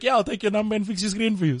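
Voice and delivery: lifted, cheerful salesman. Retold or imitated. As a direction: sell it brightly. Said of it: "then he's like".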